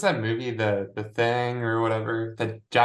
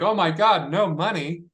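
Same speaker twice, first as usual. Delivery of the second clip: mock horror; 8 semitones higher, 3 dB louder than usual. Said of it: "She's like".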